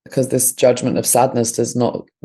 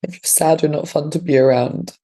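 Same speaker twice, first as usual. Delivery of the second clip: inner critic voice; 3 semitones higher than usual. Acted. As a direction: lecture yourself as the judging voice. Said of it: "This is what the voice is saying".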